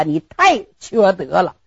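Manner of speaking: usual speaking voice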